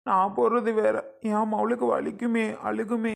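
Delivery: plaintive, close to crying; tearful protest. Acted. Father dreading his daughter's injection, tearful. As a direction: whimper that your child will suffer. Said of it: "இந்த அண்ணே அழுகிறாரு".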